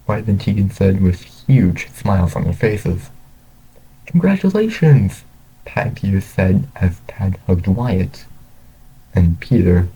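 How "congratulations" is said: high-pitched, celebratory exclamation; delighted congratulations. A narrator's reading. Pat and Peter congratulate the graduates, delighted. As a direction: exclaim it high, thrilled for them.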